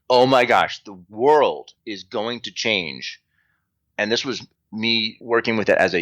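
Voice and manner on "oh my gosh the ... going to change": retold astonishment, drawing out the big claim; be struck by a huge revelation; lightning-bolt realization. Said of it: "this lightning bolt moment where I'm like".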